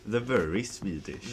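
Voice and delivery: Swedish accent. Shown as a demonstration. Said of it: "that was the worst Swedish accent I've ever done".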